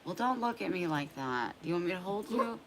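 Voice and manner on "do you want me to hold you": gentle question to the dog; nice somber voice. Shown as a demonstration. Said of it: "trying to talk in a nice, somber voice".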